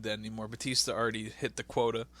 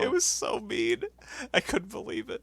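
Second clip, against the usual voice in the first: amused disbelief; 10 semitones higher than usual. Real, not acted. Laughing disbelief at mean moment.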